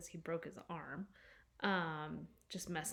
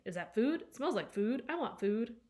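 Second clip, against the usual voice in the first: lightly voiced eager dog, a bit higher; barking dog; 4 semitones higher, 4 dB louder than usual. Dog chasing the kids with groceries, eager barky voice. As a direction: play the dog begging excitedly for food.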